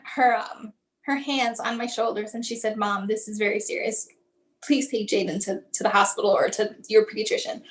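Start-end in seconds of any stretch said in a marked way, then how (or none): 2.8-7.6 lightly voiced nurse urging seriousness; grave and gentle. Nurse gently urging worried mother.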